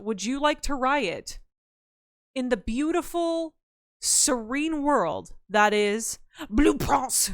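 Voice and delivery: slow, dreamy sales pitch; a slow, lightly hammed-up serene invitation; mock dreamy pitch. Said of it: "pitching Blueprints".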